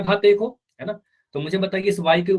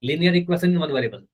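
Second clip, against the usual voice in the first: slow drill; much slower than usual. Shown as a demonstration. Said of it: "सभी ने बोला अपने मन में".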